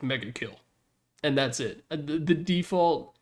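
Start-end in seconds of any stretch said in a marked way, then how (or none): 0.0-0.6 flat, unexcited announcer read; bored monotone. Retold or imitated. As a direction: say it like you couldn't care less. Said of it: "he's like, allergic to being excited".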